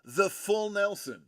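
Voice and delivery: corny punchline setup; deadpan pun delivery; telling a dad joke. Acted. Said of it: "Thanks, folks. I'll be here all week".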